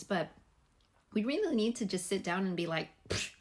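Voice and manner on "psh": put-on slipping into a light Southern accent; lazy-day Southern accent, a little louder; playful Southern accent. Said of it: "I don't know why I became Southern".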